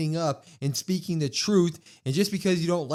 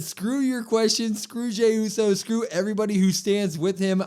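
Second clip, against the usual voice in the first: angry villain promo; 6 semitones higher, 4 dB louder than usual. Retold or imitated. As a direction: spit it out like a furious heel wrestler. Retelling Gunther's angry promo.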